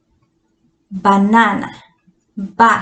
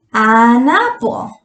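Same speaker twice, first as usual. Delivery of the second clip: "An apple" again slow, rising on "apple"; slow repeat; slower than usual. Shown as a demonstration. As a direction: say "An apple" as a gentle check. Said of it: "entonces usamos".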